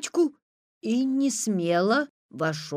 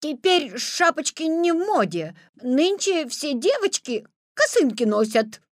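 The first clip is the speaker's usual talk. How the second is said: put-on little girl voice; 8 semitones higher, 4 dB louder than usual. A narrator's reading. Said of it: "стараясь походить на девочку".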